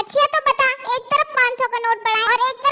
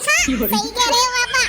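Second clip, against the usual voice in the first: sarcastic yes-man to dad; slow, mock-obedient "हाँ, सही कह रहे हो पापा"; slower than usual. Shown as a demonstration. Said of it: "ऐसे थोड़ी".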